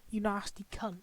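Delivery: furious outburst of swearing; swearing tirade. Real, not acted. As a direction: swear at the screen in disgust. Swearing at film clip.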